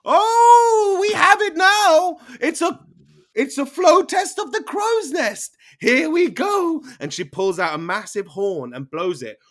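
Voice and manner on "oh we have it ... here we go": very high, loud, slowed proclamation; triumphant pirate shout. Acted. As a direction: announce the contest to the whole crowd. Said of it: "Captain Hansi goes".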